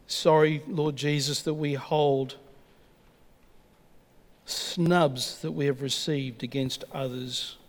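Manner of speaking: closing communion prayer; pastoral prayer. Acted. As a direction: pray it over the congregation. Leads congregation in prayer.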